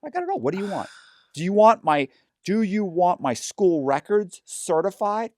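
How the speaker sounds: high, overeager mock salesman; gush, offering every document you own; hammed-up eager helpfulness.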